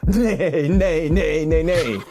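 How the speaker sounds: playful high whinnying nay; horse neigh. Pretend. After letting the horses out, a playful high horse whinny. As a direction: neigh like a released horse, laughing.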